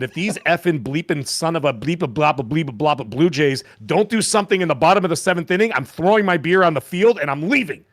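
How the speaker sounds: rising angry outburst at the game; drunk angry rant. Retold or imitated. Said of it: "this guy's super pissed".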